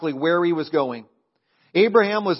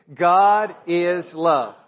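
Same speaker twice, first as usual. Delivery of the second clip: louder, slow and emphatic, every word weighed; with conviction; 5 dB louder, much slower than usual. Shown as a demonstration. Pastor leading the church to declare it, louder and slow. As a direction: say it like you truly mean it. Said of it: "Say it like you mean it".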